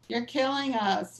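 mild mock yell, slow and drawn out; retold scream. Activist on the pew yelling at the cardinal, mild mock yell. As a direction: lightly act out a protester yelling, a touch of New Jersey accent. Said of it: "starts screaming at Cardinal".

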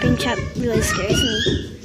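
high laughing yell; laughing shout. Real, not acted. Laughing shout while playing.

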